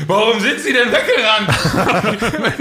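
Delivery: slow, high and loud, through laughter; stranger's question. Retold or imitated. Stranger calling after the man who ran off, high loud question. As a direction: act the baffled stranger calling out. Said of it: "hörte es auf einmal Typen so".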